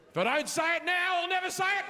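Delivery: a hater finally working up to it; imagined heckler. Retold or imitated. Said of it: "and was like".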